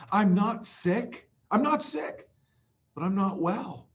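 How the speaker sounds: high, slow moved recitation; emotional. Real, not acted. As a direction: recite it overcome with feeling. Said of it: "sorry if I get emotional here".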